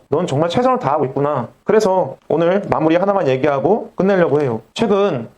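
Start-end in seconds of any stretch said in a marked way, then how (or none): 0.1-1.5 gentle empathy. Shown as a demonstration. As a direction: affirm a struggling person kindly. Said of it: "것이 아니라".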